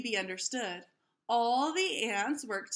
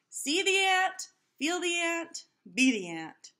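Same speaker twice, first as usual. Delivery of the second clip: dramatic pitch; 6 semitones higher, 4 dB louder than usual. Acted. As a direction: sell it like a movie trailer. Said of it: "Keisha's movie-star pitch".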